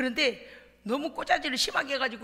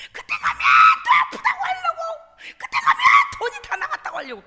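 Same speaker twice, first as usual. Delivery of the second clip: exasperated outburst; 11 dB louder than usual. Retold or imitated. Retells anger rising during prayer.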